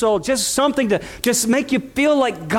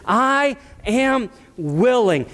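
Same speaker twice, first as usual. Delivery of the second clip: slow tender; 3 semitones higher, much slower than usual. Acted. Jesus speaks to the leper again.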